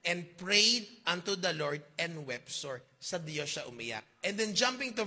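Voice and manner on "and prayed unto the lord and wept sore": slow quoted verse. Retold or imitated. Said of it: "pero ang sabi dyan".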